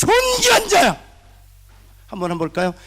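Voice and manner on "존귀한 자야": very high, loud, furious scolding. Showing the audience how to scold children with respect: angry scolding. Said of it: "분노를 존귀라는 단어에 쏟으세요".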